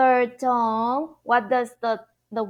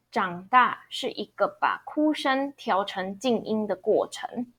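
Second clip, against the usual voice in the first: model sentence read; 4 dB quieter than usual. Shown as a demonstration. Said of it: "let's review one more time".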